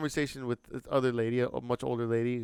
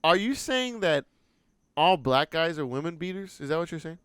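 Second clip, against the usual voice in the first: confronting challenge; 4 semitones higher, 5 dB louder than usual. Retold or imitated. Retelling his challenge to the lady.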